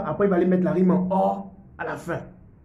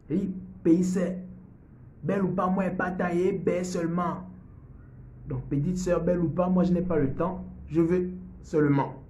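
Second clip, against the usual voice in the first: put-on Ivorian accent; 3 semitones higher than usual. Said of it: "l'accent ivoirien".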